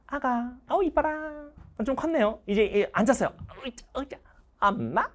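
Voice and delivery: put-on high soft cooing to a baby; sing-song baby talk, pitched well up. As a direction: coo like a doting parent.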